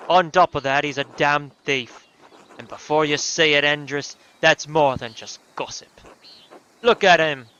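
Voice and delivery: put-on loose, shifting Australian accent on a villager griping; lightly put-on Aussie twang, drifting in and out; a grumbling Australian-accented villager. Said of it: "Otto the Aussie".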